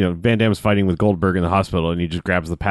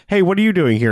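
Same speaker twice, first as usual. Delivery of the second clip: startled; 10 semitones higher, 4 dB louder than usual. Retold or imitated. Everyone confronting the press lady.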